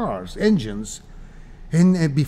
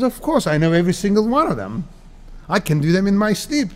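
mock cocky reply, pitched higher; cocky boast; 5 semitones higher than usual. Young shop clerk bragging to a disguised magician, cocky. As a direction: play the know-it-all kid.

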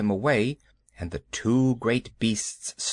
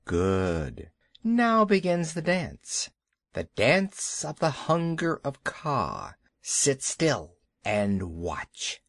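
slow, drawn-out python voice, lightly voiced; hypnotic snake voice; slower than usual. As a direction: lure them in slowly, like a snake. Kaa begins the hunger dance.

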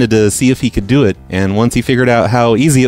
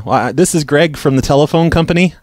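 higher, chirpy phone operator voice; prank caller voice; 5 semitones higher than usual. Acted. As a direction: play a cheerful phone company rep.

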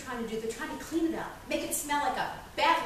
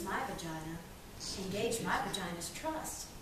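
soft, low seductive coaxing; 4 semitones lower, 10 dB quieter than usual. Acted. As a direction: gently win them over, voice dropped low. Coaxing, seductive aside in monologue.

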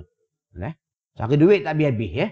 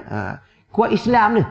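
ordinary talk, nothing marked

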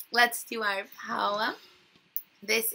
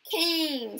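announced word; 7 semitones higher, 4 dB louder than usual. Shown as a demonstration. Teacher calling out a sight word to her class. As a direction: call the word out high and loud. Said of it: "What word is this?".

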